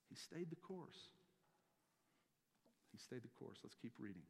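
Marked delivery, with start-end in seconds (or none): 0.1-1.1 slow, higher, drawn-out statement; deliberate slow first take; slow emphasis. Real, not acted. Repeats line for emphasis. 2.9-3.6 much softer repeat, trailing off; quiet settling echo. Real, not acted. Repeats line for emphasis.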